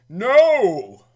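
loud distant yell of no; retold yell. Crew yelling from a distance. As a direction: shout it from far off. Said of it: "they yelled".

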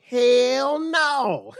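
put-on laid-back Southern California accent, but high and loud; cool Southern California accent. Friend asked about a Valentine's card, cool Southern California accent. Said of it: "in the most calmest, coolest Southern California accent".

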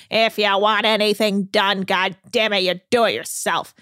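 a lightly gruff grumbling captain; mild mock grumble of an old sea captain; Captain Lee impression. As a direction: mutter like a grumpy old captain, understated. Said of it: "Captain Lee impression".

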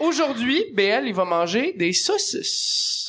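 slow documentary narration; narrator voice. Shown as a demonstration. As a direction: narrate your day slowly. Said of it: "Fais-nous la narration".

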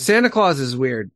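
normal talking voice

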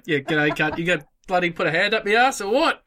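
mock Aussie challenge; Australian accent. Joking traveller to the TSA agent, Australian accent. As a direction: put on a cheeky Australian accent.

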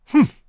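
loud, high scornful humph; disapproving sniff. Acted. Marilla scoffs at Matthew's chocolate gift with a loud disapproving humph. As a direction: snort it out, unimpressed. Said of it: "sniffed Marilla".

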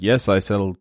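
lightly attempted Russian accent; bad Russian accent. Market girl answering the man, in a bad Russian accent. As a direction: try a clumsy, half-hearted Russian accent. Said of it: "this is not a good Russian accent".

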